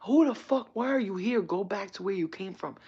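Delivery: high, loud angry challenge easing off; imitated flipping out. Imitating guy in the ride line, angry outburst. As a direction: burst in high and loud, as the irate man. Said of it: "starts flipping out".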